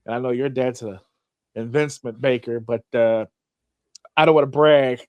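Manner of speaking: put-on a kid humble-bragging about his dad; hint of a smug schoolkid. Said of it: "you're like".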